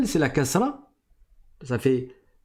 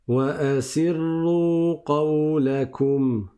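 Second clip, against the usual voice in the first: chanted Quran recitation for students to repeat; تلاوة القرآن للتلاميذ; Quranic recitation; faster than usual. Shown as a demonstration. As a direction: recite "وَأَسِرُّوا قَوْلَكُمْ" as a model for the class. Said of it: "À vous".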